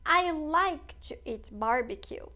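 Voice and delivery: slow, deliberate teacher's demo; slow classroom model reading; slow model sentence. Shown as a demonstration. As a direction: spell each word out slowly for the class. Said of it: "teacher models English sentence".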